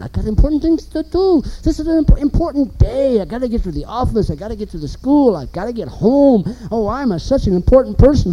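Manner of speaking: mocking an impatient driver who thinks he's so important; puffed-up whine of a kid late for nothing; self-important young driver. Preacher mocking a self-important driver, puffed-up whine. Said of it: "he's going like this".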